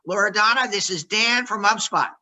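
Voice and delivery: measured greeting. Shown as a demonstration. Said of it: "you don't say anything after you say your greeting".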